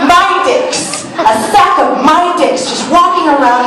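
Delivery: high laughing cry of horror; aghast and amused; mock horror. Horror at mom finding toys.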